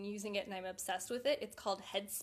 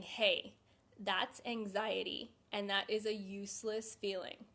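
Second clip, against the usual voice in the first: slow, steady naming of the feeling; talking yourself down calmly; calm self-talk. Shown as a demonstration. Demonstrating calm self-talk to anxious viewers, slow and steady. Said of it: "taking a step back and saying".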